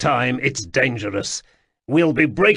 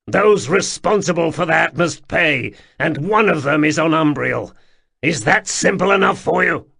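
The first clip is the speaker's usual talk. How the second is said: tortured flatness; 5 semitones higher, 6 dB louder than usual. Acted. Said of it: "tortured flatness of Sul's voice".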